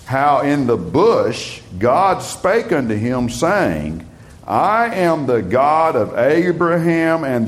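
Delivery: slow, deliberate Bible reading; slow scripture reading. Acted. Preacher reading Jesus's words to the congregation, slow and solemn. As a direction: lay each phrase down slowly and solemnly. Reads Mark aloud slowly.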